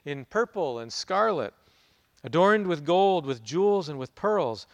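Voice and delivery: measured, grave Bible reading; scripture reading. Acted. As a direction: read it out like a proclamation from the pulpit. Reads scripture before the sermon.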